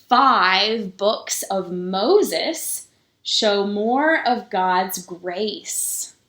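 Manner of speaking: slow, measured picture-book reading with pauses; story reading. A narrator's reading. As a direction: read it to the children slowly, lingering on each number. Reads the picture book aloud.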